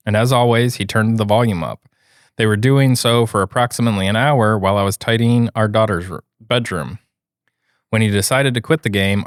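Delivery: even, steady read-aloud voice; reading a post aloud. A narrator's reading. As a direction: read the written account out clearly. Reads a listener's post aloud.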